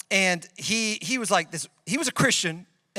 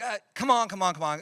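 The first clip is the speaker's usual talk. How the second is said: eye-rolling. Acted. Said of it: "kinda roll your eyes and be like".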